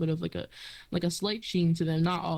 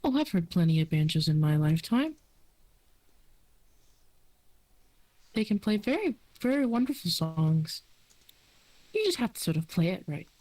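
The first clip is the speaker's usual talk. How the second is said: lightly voiced friendly elf; 3 semitones higher than usual. Silksong talks about banjos.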